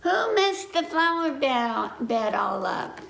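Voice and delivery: high, calling voice of grandpa. Acted. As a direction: call out to the grandchild. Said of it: "Grandpa called out".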